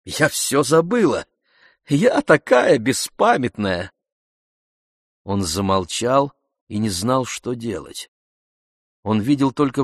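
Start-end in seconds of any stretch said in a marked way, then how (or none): 0.0-3.9 higher, louder, insisting a bit too hard; with sharp vexation on забыла; vexed denial. Acted. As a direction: wave it away with flustered vexation. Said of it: "почти с досадой отвечала она".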